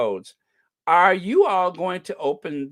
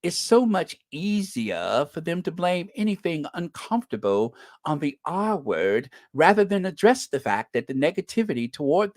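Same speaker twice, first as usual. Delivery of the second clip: lightly put-on creepy posh tone; a hint of a smug sinister pundit; mocking a posh pundit's creepy tirade. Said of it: "in that very creepy, sinister voice".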